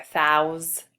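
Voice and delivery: "thousand" broken as THOUS, long pause, AND; broken into syllables. Shown as a demonstration. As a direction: hold the first syllable of "thousand", then add the ending separately. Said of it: "So we break the syllable right there".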